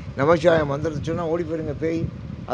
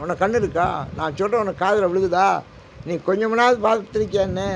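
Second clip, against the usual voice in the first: acted crying out; 4 semitones higher than usual. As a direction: cry out to god in pain, higher. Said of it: "அப்படின்னு கத்துறேன்". (கடவுளிடம் கதறும் உரத்த குரல்)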